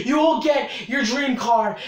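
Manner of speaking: shouted hype promise. Acted. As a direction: yell it like an ad pitch.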